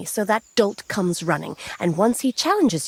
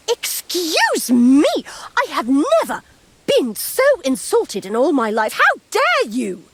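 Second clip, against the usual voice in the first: mock outrage; 4 semitones higher than usual. Staged fake outrage at insult.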